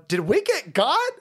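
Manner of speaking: high, excited mock cheer. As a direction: yelp out the yes like a fan. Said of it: "black people are sitting there going".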